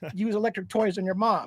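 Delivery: put-on angry voice. Retelling an angry reply to a chat that said he didn't care: retelling own angry outburst. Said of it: "I was so pissed".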